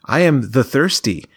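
lightly voiced quirky game mascot; stilted cutesy character voice. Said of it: "this character will say".

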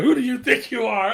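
imitated outburst, building to a yell; mock confrontational yell. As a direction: shout it into a wordless holler. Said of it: "Fucking hit him with the".

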